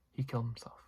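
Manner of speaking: breathy secretive whisper, barely voiced. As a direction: let the lie out in a hush. Cecilia lies, retold movie scene.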